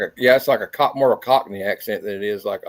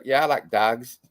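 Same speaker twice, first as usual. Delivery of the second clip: mumbled Irish traveller reply; Irish traveller accent; slower than usual. Retold or imitated. Quoting the Snatch reply in an Irish traveller accent. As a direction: answer in a thick traveller lilt. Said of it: "talk exactly like Brad Pitt in Snatch".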